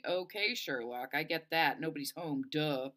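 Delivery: mild irritation, rubbing it in; irritated. Acted. Delphi turns on the boy over nobody being home, irritated. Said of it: "Sounding irritated, she turns toward me".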